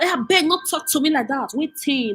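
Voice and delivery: mocking high whiny voice; a light mimic of the other woman; mock reply. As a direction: parody her as prissy and offended.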